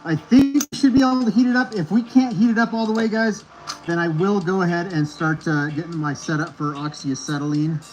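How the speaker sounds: muffled through a respirator; talking through a face mask. Real, not acted. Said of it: "it's gonna sound muffled because I, uh, I threw a gas mask on".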